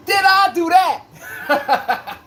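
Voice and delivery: high, slow, nasal-free squeaky nerd voice; Urkel impression. Streamer mocking himself to chat, squeaky high catchphrase. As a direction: squeak it out like a sitcom nerd caught in the act.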